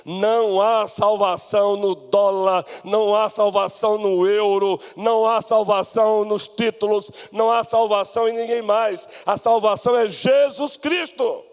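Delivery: rhythmic proclamation building to a high cry; full-force preaching. Acted. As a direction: hammer each repeated phrase, rising to the climax. (pregação inflamada, crescendo até o clímax)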